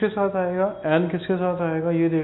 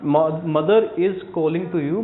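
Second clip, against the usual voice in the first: slow dictation; much slower than usual. Shown as a demonstration. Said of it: "तो calling के साथ हम to लगाएंगे".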